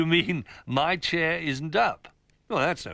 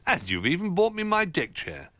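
put-on higher, louder, delighted old bear; delighted surprise; 10 semitones higher, 5 dB louder than usual. Old Bear thanking the toys, pleasantly surprised. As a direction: exclaim at an unexpected kindness.

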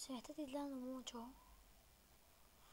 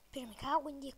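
swearing out loud, frustrated; loud curse; 7 dB louder than usual. Real, not acted. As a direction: blurt the curse louder. Fluch nach Treffer im Spiel.

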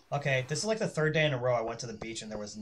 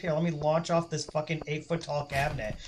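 cat voice; 3 semitones higher, 4 dB louder than usual. Pretend. Voicing the cat taunting.

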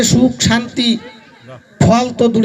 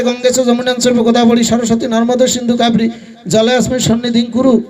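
recited mantra. Acted. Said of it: "সুন্দরভাবে লেখা আছে".

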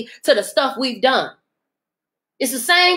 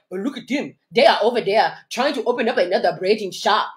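mock jealous whisper of a gossiping neighbour; mock envious gossip; 4 semitones lower than usual.

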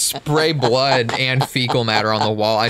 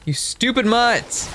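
angry yell; 10 semitones higher, slower than usual. Pretend. Yelling at attacking dogs.

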